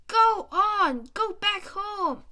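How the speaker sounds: loud, high shout; shouting teacher. Acted. Teacher shouting at the donkey to go home, loud. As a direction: shoo the donkey off loudly. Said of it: "he shouts".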